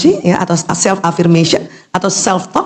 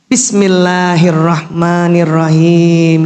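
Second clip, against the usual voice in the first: drawn-out reverent basmalah, slow; slow recitation; 4 semitones lower, much slower than usual. Shown as a demonstration. Teacher leading the class in a slow basmalah. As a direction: recite it slowly and devoutly. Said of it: "Coba ya sekarang".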